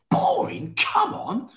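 high, squeaky disbelief; scandalised, high-pitched objection; incredulous protest. Real, not acted. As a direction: balk at the very idea, voice shooting up. Scoffs at Emmerdale being called boring.

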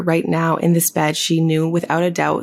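sultry audiobook reading; story narration. Acted. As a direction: read it like a steamy audiobook. Reads erotic fiction aloud.

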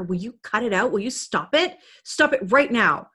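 lightly acted impatience, firmer at the end; exasperated parent. Parent telling a child to stop, mildly exasperated. Voices a parent losing patience.

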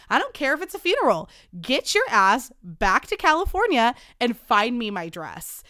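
put-on unload on her like drunk angry Ashley; furious rant. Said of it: "Tequila Ashley".

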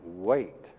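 "Wait." set apart, alone and firm; one emphatic word, "Wait."; stressed word. Shown as a demonstration. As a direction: let "Wait." land by itself after a pause. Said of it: "the most important word in this verse is wait".

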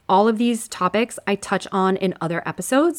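scratchy, shaky throat holding back a cough. Real, not acted. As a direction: talk through a scratchy throat, voice a bit shaky. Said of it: "Sorry for my shaky, scratchy voice".

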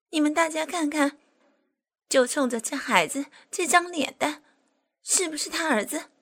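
high, loud furious tirade; enraged. Acted. Jilted woman yelling at the official before onlookers, enraged. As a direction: scream at him in front of everyone. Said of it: "气的一蹦三尺高".

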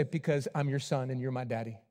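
a hint of a small boy; small child answering. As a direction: son answering daddy quietly. Son answering father.

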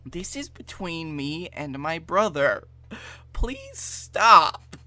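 lightly voiced plea rising at the end; Austin voice. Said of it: "I love your Austin voice".

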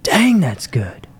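slow awed whisper; hushed savouring whisper; whispered aside. Retold or imitated. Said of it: "I'm just like".

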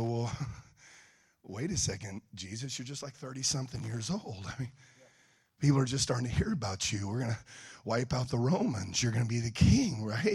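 very soft, low, puzzled protest; hesitant objection. Retold or imitated. Disciples question Jesus about dying, hesitant and hushed. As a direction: question your leader timidly and quietly.

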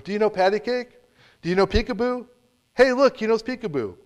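high, loud calling across a room; drunk man calling out. Retold or imitated. Drunk old man shouting to a baby across the restaurant, high and loud. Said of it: "The man began shouting from across the room".

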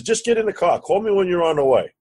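high-pitched, insistent phone instruction; urgent urging. Retold or imitated. Partner hurrying him into the car, urgent. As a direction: push him to go, voice jumping up high.

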